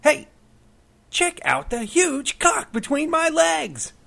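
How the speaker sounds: slow high loud yell; mock prankster shout. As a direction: stretch it out in a high hooting yell. Prankster yelling again, hallucination.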